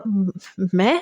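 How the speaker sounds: tripping over the first sound, caught off guard; a startled, stumbling question; flustered stammer. A narrator's reading. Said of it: "وہ بری طرح سے بوکھلایا".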